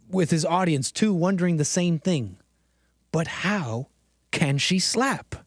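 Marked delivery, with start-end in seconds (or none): 3.1-5.4 slow, drawn-out baffled question; mock outraged question. Host quoting the clip's baffled line, drawn out. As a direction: lean into each word like it's unbelievable. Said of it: "one phrase he could repeat".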